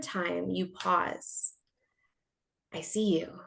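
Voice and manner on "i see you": hushed, private recognition; soft, mostly whispered aside; quiet acknowledgement. Acted. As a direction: say it in a near-whisper. Acting out noticing the repeated sign.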